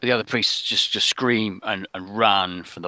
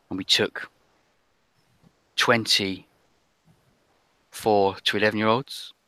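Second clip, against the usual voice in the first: put-on frightened girl's confession; 2 semitones lower than usual. Little girl tells rescuers of the witches, hushed and halting.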